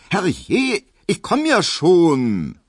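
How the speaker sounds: high, loud, slowed call. A narrator's reading. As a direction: yell it toward the door. Hedwig calling to the door.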